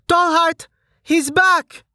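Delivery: high loud joyful shout; calling out. A narrator's reading. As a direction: call across the room to him. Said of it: "Amelia yelled".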